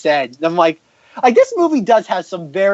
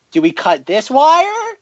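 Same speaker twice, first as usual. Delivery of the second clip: droid dithering; 3 semitones higher, 4 dB louder, slower than usual. Retold or imitated. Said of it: "where it's like".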